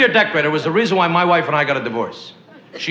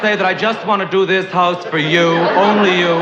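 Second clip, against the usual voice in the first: lightly voiced fawning decorator; a hint of a gushing interior decorator. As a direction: coo it like a flattering decorator. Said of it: "That's the way interior decorators talk".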